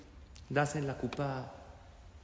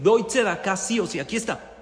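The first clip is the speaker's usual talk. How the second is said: pleading prayer; 4 semitones higher, 6 dB louder than usual. Acted. Parent pleading God for son.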